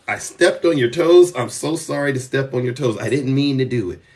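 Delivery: lightly acted sorry voice; mock apology. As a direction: play it like a contrite apologizer. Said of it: "I will be the first one to apologize".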